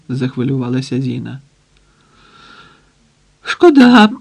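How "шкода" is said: much higher, louder burst; loud bark. A narrator's reading. Pot-bellied hostage answering Zina, loud burst. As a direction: snap it out at Zina. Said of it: "буркнув пузатий Потапов".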